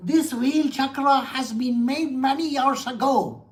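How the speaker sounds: a light mock American accent, pointing out a temple detail; understated American accent impression; Praveen Mohan's American accent. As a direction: imitate a YouTuber's American accent, only lightly. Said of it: "He talks like this".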